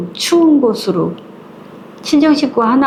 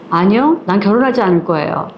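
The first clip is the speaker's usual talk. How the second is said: spirited refusal. Retold or imitated. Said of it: "아주 당차게".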